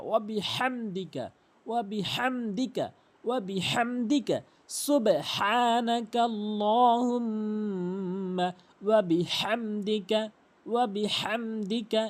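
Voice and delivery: slow, melodic Arabic recitation with throaty h; correct slow recitation. Shown as a demonstration. Teacher repeating for learners, slow measured recitation. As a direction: draw out each phrase, holding long vowels and m. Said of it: "এভাবে উচ্চারণ করবেন".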